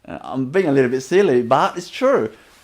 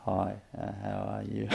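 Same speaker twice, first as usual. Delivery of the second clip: much softer, barely voiced hello; low volume greeting; 7 semitones lower, 14 dB quieter than usual. Shown as a demonstration. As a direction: mumble the greeting at very low volume as a counter-example. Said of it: "I don't mean that type of low volume stuff".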